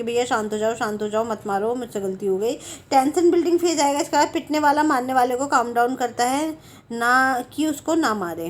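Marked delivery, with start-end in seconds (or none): 0.0-2.5 lower, mildly pleading to placate; calming down. Acted. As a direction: gently talk an attacker down. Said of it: "calm down करते हो". (हल्के से शांत कराते हुए)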